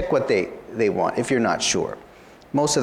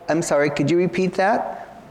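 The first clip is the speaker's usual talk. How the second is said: raised, polite asking voice; polite raised model question; model polite request; 6 semitones higher than usual. Shown as a demonstration. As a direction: ask it back politely, pitched up. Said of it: "So you could say".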